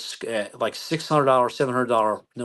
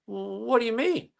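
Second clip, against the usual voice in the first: mock innocent speeder; 10 semitones higher, slower than usual. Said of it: "He goes".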